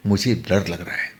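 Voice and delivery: whispered, barely voiced "मुझे डर लग रहा है"; frightened whisper. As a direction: breathe the admission out, scared to say it. Narrator's frightened confession to bhabhi. (डरी हुई फुसफुसाहट)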